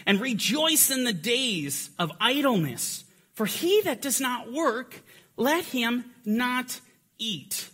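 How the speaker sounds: slow, measured reading of the quoted verse; solemn scripture reading. Acted. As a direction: read it out slowly like holy text. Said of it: "Now, he goes on and says".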